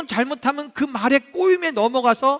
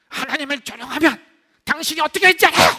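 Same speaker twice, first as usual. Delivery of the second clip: acted heated retort, rising louder and higher; angry outburst; 4 semitones higher, 4 dB louder than usual. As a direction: play someone losing their temper, building to a shout. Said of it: "열받아가 화가 나가지고".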